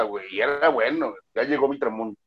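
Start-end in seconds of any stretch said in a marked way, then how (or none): 1.3-2.2 solemn poetry recital, a touch softer; hammy stage actor. Shown as a demonstration. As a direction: declaim it like a grand stage poet. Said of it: "Yo declamaba".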